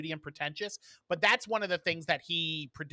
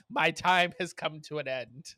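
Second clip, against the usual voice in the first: mock dying. Podcaster pretends to expire at show's end, mock dying. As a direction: play a fake farewell at death's door. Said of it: "if you had a heart attack".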